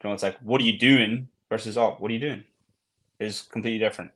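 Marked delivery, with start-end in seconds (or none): 0.4-1.3 sharp, accusing question; confronting What are you doing. Shown as a demonstration. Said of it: "a sentence said with a certain tone". 1.8-2.4 friendly What are you doing; gentle tone. Shown as a demonstration. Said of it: "a sentence said with a certain tone".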